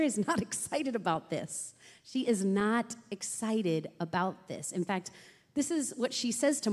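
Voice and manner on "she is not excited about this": slow, deliberate stress on "not"; "not" drawn out for emphasis. Real, not acted. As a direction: spell it out slowly, leaning on "not". Repeats the line for emphasis.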